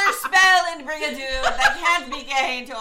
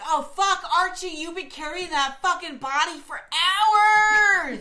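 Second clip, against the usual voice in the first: mock dismay; 4 semitones higher than usual. Men acted exclaiming to Archie.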